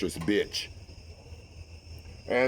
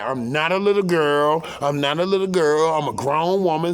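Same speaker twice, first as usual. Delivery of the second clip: indignant mistress; 3 semitones higher, 4 dB louder than usual. Retold or imitated. Mistress objects on three-way call.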